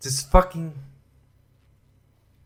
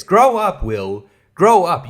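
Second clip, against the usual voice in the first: louder, higher scolding; angry scolding; 4 semitones higher, 7 dB louder, slower than usual. Real, not acted. Scolding Will Wheaton angrily to grow up. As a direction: tell him off like a parent.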